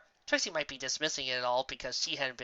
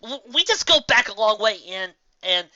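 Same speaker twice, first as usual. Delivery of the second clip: higher, halting stammer; struggling for words; 6 semitones higher, 9 dB louder than usual. A narrator's reading. Dash explaining to Gilda, halting and flustered. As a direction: fumble for an excuse. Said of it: "Rainbow struggled to find the words".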